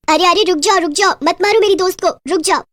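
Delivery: mildly desperate appeal for a friend; urgent plea. Acted. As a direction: call on the mob to stop. Witch begs mob to spare friend.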